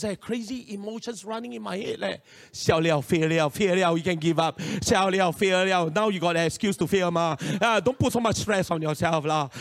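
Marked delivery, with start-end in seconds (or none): 2.5-9.5 loud, lower, insistent inner chatter; nagging inner voice. Retold or imitated. His own doubts telling him to give up, nagging. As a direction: nag yourself toward defeat, loudly. Voices in head urging giving up.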